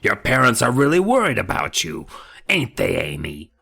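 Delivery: rasping dummy threat; harsh whispery dummy. Acted. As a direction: rasp it cold and harsh. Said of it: "harsh, cold, whispery voice".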